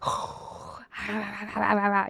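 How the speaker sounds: breath in, then rapid mock barks; imitated dog barking. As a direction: do a guard dog going off. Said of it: "he will be like".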